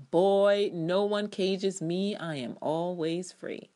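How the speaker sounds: put-on a loud "Boy," then slow, lofty defiance; slow, commanding declaration of freedom; stern defiant father. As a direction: hand down the line like an untouchable patriarch. Quoting Rowan's defiant line.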